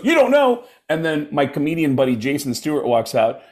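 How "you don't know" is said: high mock-incredulous question; incredulous cop. Cop hears suspect's dumb answer, high and incredulous. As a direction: throw it back in disbelief.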